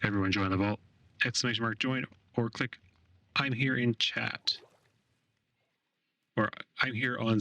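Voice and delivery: digitally altered voice changer sound. Real, not acted. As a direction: voice run through a voice changer. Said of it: "I'm gonna turn on my voice changer".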